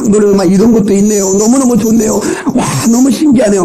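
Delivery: mildly gushing over something new; amazed young woman. Acted. Young woman taken somewhere new by her date, gushing in mock wonder. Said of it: "모든 게 새로운 거 놀라운 거예요".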